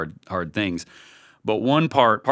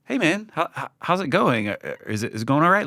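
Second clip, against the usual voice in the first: higher, easy caring "Hey, man, how's it going?"; friendly check-in; 8 semitones higher than usual. Shown as a demonstration. Leader shows the right way to ask a team member, friendly and caring. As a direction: ask gently, like you're on their side. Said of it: "This is".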